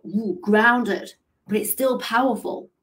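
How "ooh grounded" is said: grounded. Retold or imitated. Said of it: "Their energy is like".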